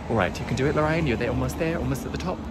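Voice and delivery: panting up a steep hill; out of breath. Real, not acted. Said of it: "Excuse me if I get a bit out of breath".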